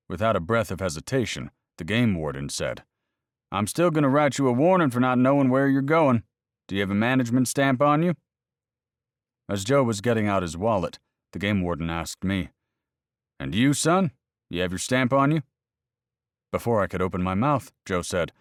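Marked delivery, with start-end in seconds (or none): 3.5-8.2 higher, louder officious warden; game warden scolding the boys, officious and louder; stern game warden. Acted. Narrator voices the game warden. 13.4-15.4 officious warden. Acted. Narrator voices the game warden.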